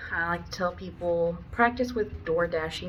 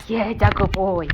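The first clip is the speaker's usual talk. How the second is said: whispered praise; 9 dB louder than usual. Real, not acted. Praising dog.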